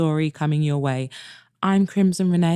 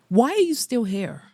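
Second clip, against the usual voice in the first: a sharp, higher challenge; abrupt, edgy question; sharper than intended; 5 semitones higher than usual. Acted. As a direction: snap the question at him. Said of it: "My voice came out sharper than I intended".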